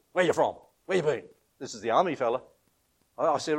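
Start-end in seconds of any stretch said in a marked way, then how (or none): 0.1-1.2 a mild mock gruff question; lightly voiced border guard, curt; gruff soldier. Pastor retelling the Jordan crossing guard, mildly gruff. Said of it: "the fella said real gruffly".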